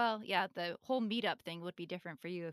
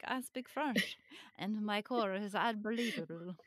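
badly faked French accent; a mock French accent, done badly; horrible French accent. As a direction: put on a hammy, inept French accent. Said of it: "That's a horrible accent".

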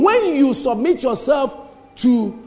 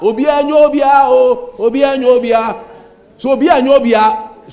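louder, repeated phrase hammered home; loud proclaiming; 5 dB louder than usual. Real, not acted. Preacher repeating a saying to the congregation, loud and insistent. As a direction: proclaim it again and again.

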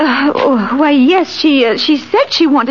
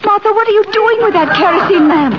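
alarmed; 4 semitones higher, faster than usual. Acted. Sees kerosene lamp, alarmed.

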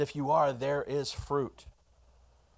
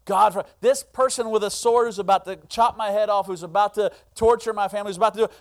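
loud, high, urgent preaching; rising fervent plea; impassioned preaching; 6 semitones higher, 8 dB louder than usual. Real, not acted. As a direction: pound the point home. Preaching at full force.

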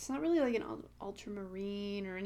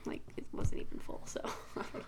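whispering; faster than usual. Real, not acted. Trailing off, muttered aside.

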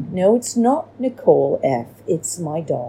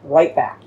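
rewind sound effect; 2 semitones lower than usual. Shown as a demonstration. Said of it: "That's my rewind voice or whatever".

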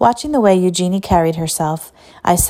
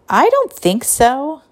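put-on young girl voice; 7 semitones higher, slower than usual. A narrator's reading. Mona's voice, narrated quote.

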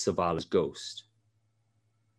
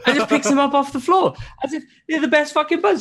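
laughing retelling; 5 dB louder, faster than usual. Real, not acted. Laughing while retelling scene.

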